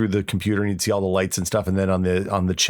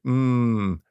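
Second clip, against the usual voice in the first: drooling Homer Simpson "mmm"; hammed-up Homer Simpson craving; much slower than usual. Mock Homer Simpson drool over a forum post. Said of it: "that was a Homer Simpson, not a Gollum".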